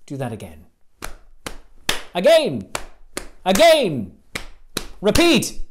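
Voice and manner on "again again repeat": louder call to repeat. Shown as a demonstration. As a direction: drill the crowd like a coach. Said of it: "leading clap rhythm".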